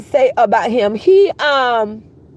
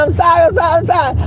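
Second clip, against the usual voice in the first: pleading apology; 4 semitones higher, faster than usual. Retold or imitated. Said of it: "He started saying".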